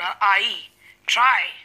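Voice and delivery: आ gliding into ई, drawn out in "आई, ट्राई"; diphthong demonstration. Shown as a demonstration. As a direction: sound out the आ-plus-ई glide in "ट्राई" slowly. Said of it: "आ और ई का sound". ("ट्राई" में आ से ई की खिंची हुई ध्वनि)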